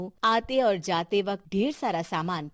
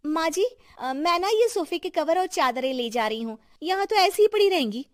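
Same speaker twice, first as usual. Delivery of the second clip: high, sweetly wheedling bahu voice; greedy young daughter-in-law; 8 semitones higher than usual. A narrator's reading. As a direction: coax the mother-in-law, speeding up at the end. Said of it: "थोड़ी देर बाद छोटी बहू कहती है".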